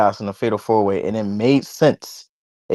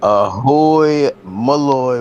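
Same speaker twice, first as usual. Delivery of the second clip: show host intro; 2 semitones higher, much slower than usual. Acted. Podcast host opening the show.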